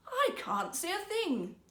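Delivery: high, slow, panicky worry; he can't believe his eyes; dismayed whisper-thought. Acted. Old minister staring at nothing, high and anxious.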